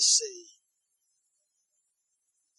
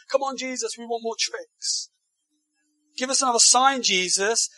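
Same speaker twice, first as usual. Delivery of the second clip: pushy mock demand; 5 semitones higher than usual. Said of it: "they say to Jesus".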